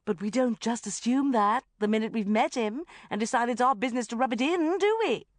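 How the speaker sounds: loud, high, building outrage; indignant rant. A narrator's reading. Sharon ranting to Bridget about the banker, indignant. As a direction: rant on, climbing to the final question.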